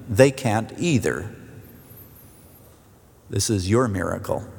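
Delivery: subdued, earnest prayer to God; public prayer. Real, not acted. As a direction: lead the congregation in solemn prayer. Leads the congregation in prayer.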